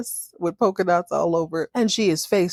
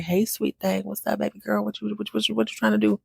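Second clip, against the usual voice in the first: flirty player; 3 semitones higher, faster than usual. Retold or imitated. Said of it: "He's like".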